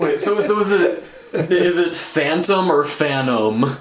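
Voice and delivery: giggling through the question; laughing while asking. Real, not acted. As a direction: ask it while cracking up. Asking about pronunciation while laughing.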